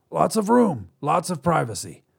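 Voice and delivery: a hint of a salesy alien. Alien selling the idea.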